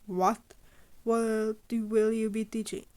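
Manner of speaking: a sharp, loud what of alarm; alarmed teacher protesting; startled outburst. Acted. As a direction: blurt it out, caught off guard. Aizawa startled by the news.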